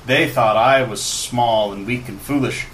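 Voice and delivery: lightly voiced brooding villain; a hint of a menacing wizard; villain monologue. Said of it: "goes into his monologue".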